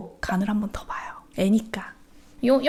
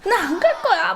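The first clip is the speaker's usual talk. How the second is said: put-on higher, laughing kid refusal; stubborn child; 9 semitones higher, 3 dB louder than usual. Mom laughing as she imitates her son refusing. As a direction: whine it like a defiant boy.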